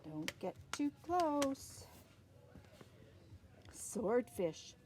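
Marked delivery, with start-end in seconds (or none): 0.0-1.9 slow warning. Pretend. Warning the kids.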